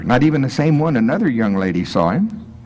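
ordinary talk, nothing marked

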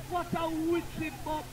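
slow, drawn out wonder; mock amazement. Real, not acted. Selector mocking the rival crew's play. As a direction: savour the jab at the rival.

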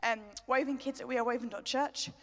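breathless after dancing; talking while catching breath. Real, not acted. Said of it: "I'm out of breath".

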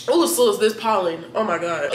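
ordinary delivery

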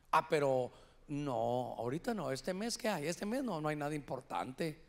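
low, soft musing; reluctant self-talk. Retold or imitated. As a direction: murmur your second thoughts to yourself, trailing down. Talking himself out of wearing it.

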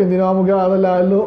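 fast, put-on sulky kid voice; a mock pouting child refusing to study. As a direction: sulk back at the parent. Child sulking at parent.

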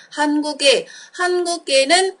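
한국에 run together, final consonant carried onto 에; linked Korean sounds. Shown as a demonstration. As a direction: link 한국에는 smoothly, the ㄱ sliding into 에. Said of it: "Nối âm vào đúng không".

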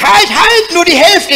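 high, loud cry while falling; panicked high shout mid-fall; frantic shout. Acted. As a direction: yell it down to the kitchen window. Falling man calls to his wife.

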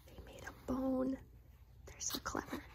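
soft, breathy aside; hushed aside. Real, not acted. Reader marvels at the dogs, whispered. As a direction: murmur it in wonder. Reading aloud to child.

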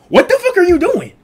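mock yell. He yells at drunk sister.

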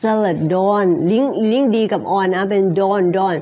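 "salad on" linked so it sounds like "don"; linked "salad don", D starting the second word. Shown as a demonstration. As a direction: carry the D of "salad" into "on".

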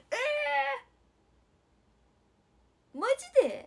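very high, loud squeal of disbelief; shocked shriek. Real, not acted. Idol learns of a viewer's gift, shocked squeal. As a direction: shriek it out in amazement.

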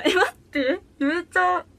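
high, loud amazed outburst; real excited disbelief; delighted surprise. Real, not acted. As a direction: blurt it out, amazed at your own success. Amazed she managed the tongue twister.

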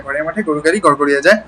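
ঘরের মাঠে গরুর গাড়ি rattled off fast; fast tongue twister. Shown as a demonstration. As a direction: rush ঘরের মাঠে গরুর গাড়ি as quickly as you can. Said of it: "যত দ্রুত বলতে পারেন".

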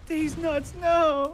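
cracking voice mid-yell; voice break. Real, not acted. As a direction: voice cracking high. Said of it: "another voice break".

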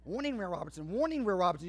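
a hint of the TV robot; Lost in Space robot. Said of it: "Y'all remember Will Robertson?".

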